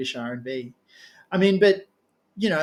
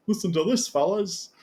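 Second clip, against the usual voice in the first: bad Scouse accent attempt; weak stab at a Liverpool accent; 3 semitones higher than usual. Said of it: "that was a terrible accent".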